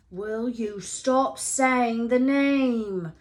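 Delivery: slow, drawn-out hiss; slow frightened hissing demand. A narrator's reading. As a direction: snap at him to stop, scared. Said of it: "Ron hissed".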